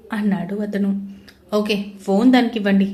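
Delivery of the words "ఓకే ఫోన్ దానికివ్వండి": angry. Acted. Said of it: "అన్నాడు దేవ్ కోపంగా".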